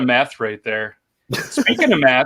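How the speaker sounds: math in a Canadian accent, sounding like "meth". Real, not acted. Guest hears meth in host's math, Canadian accent. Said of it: "are you saying meth".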